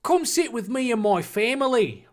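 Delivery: mock Australian. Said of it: "uh, Australia?".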